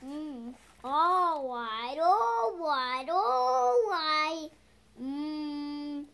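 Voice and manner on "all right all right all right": exasperated give-in. Acted. Giving up, exasperated.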